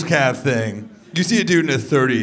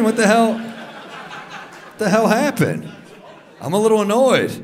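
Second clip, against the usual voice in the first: mock outrage; 8 semitones higher, slower than usual. Mock outrage at empty chair.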